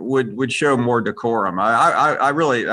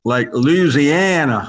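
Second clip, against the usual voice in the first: Louisiana stretched out slowly in a mock fake Southern accent; a light, teasing put-on Southern drawl on Louisiana; much slower than usual. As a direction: poke fun at movie-style Southern accents by dragging out Louisiana. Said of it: "people faked Southern accents".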